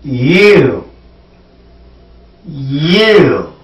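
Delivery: "You" with a clear y glide, tongue back; model pronunciation. Shown as a demonstration. Teacher modeling the word for students with a pencil. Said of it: "Now let's say the word you".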